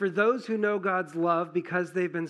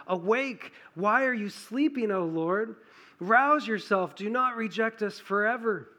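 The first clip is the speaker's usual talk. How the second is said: urgent psalm cry, raised and high; pleading cry; 4 semitones higher than usual. Acted. Reading the psalmist's plea aloud.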